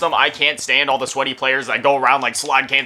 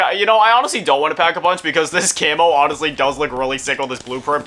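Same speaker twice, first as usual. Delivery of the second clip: normal talking voice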